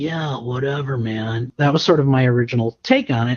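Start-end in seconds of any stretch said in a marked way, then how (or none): 0.0-1.5 raspy, easygoing, cool surfer voice. Showing the original take on the character: raspy surfer-dude Shikamaru voice. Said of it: "mixed with a surfer dude".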